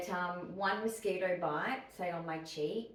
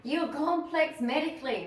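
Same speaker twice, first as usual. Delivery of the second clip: mocking doctors; 8 semitones higher, 6 dB louder than usual. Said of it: "That's all I hear from doctors".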